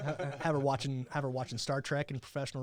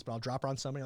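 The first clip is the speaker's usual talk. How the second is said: ordinary talk, nothing marked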